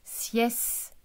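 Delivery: "sieste" stretched, with a gap before the final te; split into syllables. Shown as a demonstration. Teacher showing where the sound sits, "sieste" syllable by syllable. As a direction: sound out "sieste" as siès, pause, te. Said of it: "il y a un s".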